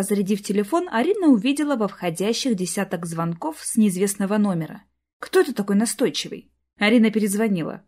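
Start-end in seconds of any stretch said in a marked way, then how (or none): none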